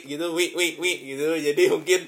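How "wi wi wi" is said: imitated hiccups. Shown as a demonstration. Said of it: "kalau di tengah jalan dengar suara saya".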